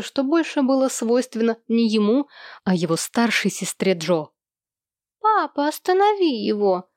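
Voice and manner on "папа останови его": put-on high, scared child's cry; frightened wail. A narrator's reading. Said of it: "в испуге завопил Томми".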